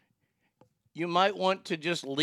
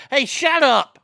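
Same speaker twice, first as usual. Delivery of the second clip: shut up; 8 semitones higher, 7 dB louder than usual. Pretend. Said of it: "snapping at the imagined defender".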